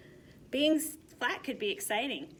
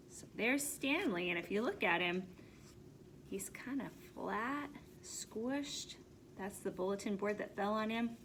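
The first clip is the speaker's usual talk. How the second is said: hushed aside; 9 dB quieter than usual. Real, not acted. Reader pointing at the picture, hushed aside. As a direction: drop to a near whisper to show them. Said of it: "reader aside to listeners, hushed".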